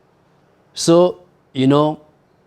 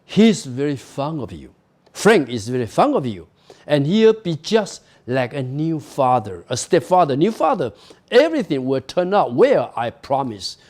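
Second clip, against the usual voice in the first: calmly. Acted. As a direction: soothe the child gently. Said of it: "she said more calmly".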